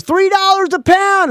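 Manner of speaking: put-on high, loud old sea captain voice; hammed-up salty skipper who can't hear; imitating the boat captain shouting back; weird old captain. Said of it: "He's like a weird old captain of a boat".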